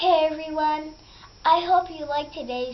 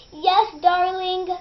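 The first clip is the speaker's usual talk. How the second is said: slow, sing-song, higher sweet voice; the wolf coos like a granny, drawn out; wolf faking grandma's sweet voice, sung slowly; sweet fake grandma; 5 semitones higher, 6 dB louder, slower than usual.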